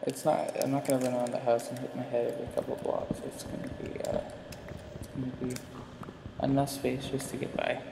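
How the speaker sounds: slight lisp from a retainer; wearing a retainer. Real, not acted. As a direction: talk around a spring retainer. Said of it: "I may have a slight speech impediment because I have this new retainer".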